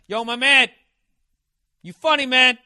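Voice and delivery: high, loud, friendly dude voice; loud fan greeting. Retold or imitated. Fan in the parking lot calls out, loud and high. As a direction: call it out like an excited fan. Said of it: "And this other guy".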